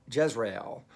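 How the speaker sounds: Jezreel ending clearly in EL; corrected pronunciation. Shown as a demonstration. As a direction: say Jezreel as jez-ree-EL. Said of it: "Not Jezreel".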